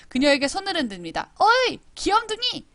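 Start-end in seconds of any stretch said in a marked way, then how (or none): 1.4-2.7 much higher, slower mocking call; sing-song tease like a schoolyard brat; teasing kid. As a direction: classmate taunting the new girl. Reading a kid's teasing line.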